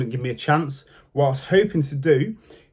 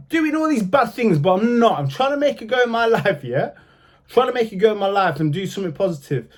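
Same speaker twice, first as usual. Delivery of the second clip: indignant protest; 4 semitones higher than usual. Real, not acted. Protesting his effort to go straight.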